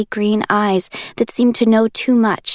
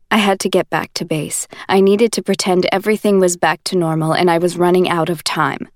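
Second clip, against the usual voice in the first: put-on lightly lower, steady young man explaining; Warner's voice; 3 semitones lower than usual. Warner explaining to Juliet, calm and low. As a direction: keep it even and patient.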